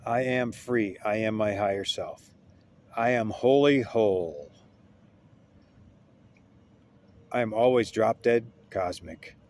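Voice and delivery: emphatic, deliberate self-affirmation; affirmation with conviction. Shown as a demonstration. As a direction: declare it firmly, with feeling. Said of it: "You gotta say it with conviction".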